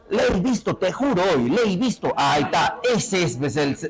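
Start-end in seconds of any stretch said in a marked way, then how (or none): 0.1-2.1 imitated Andean speaker swearing to it; Andean Spanish. Shown as a demonstration. Teacher acting an Andean speaker, Andean accent. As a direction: Andean accent, "le he" merged into "lei". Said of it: "el de los Andes".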